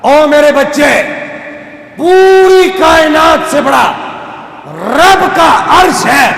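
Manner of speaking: slow, high, loud wailing; anguished cry. A narrator's reading. Repentant father cries out to his son in anguish. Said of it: "تڑپ کر اس نے کہا".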